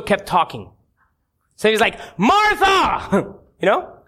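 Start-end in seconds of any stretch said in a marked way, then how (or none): 2.2-3.3 high, drawn-out mock shout; exasperated call. Jesus interrupts Martha who kept talking, exasperated call. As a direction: cut through someone's chatter with her name. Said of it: "I imagine it like this".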